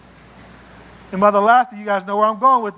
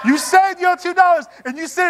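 higher still, laughing through the words; amused, higher repeat; laughing harder; 9 semitones higher than usual. Real, not acted. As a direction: crack up on the repeat. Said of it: "repeat, higher and laughing".

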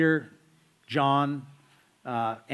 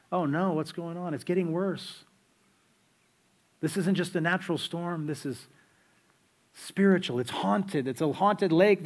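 mock panic; 3 semitones higher than usual. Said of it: "they probably imagine".

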